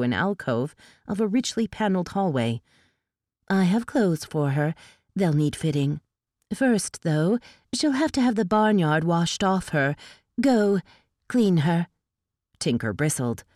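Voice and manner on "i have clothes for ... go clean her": lightly voiced elf noblewoman giving curt orders; haughty elf lady. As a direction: command briskly, looking down on her. Sparrow orders servants.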